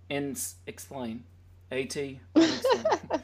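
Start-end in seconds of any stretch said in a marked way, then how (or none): 1.7-3.2 laughing while saying it; giggling through the words. Real, not acted. Laughing through her own spelling.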